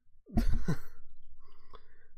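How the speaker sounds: short unvoiced burst of laughter; breathy laugh. Real, not acted. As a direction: laugh out under your breath. Laughs at the cat mishap.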